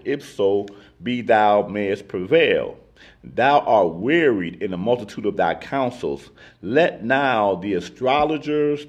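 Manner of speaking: measured Bible reading aloud; scripture reading. Acted. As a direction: read the verse out with even, deliberate weight. Reads scripture aloud to the group.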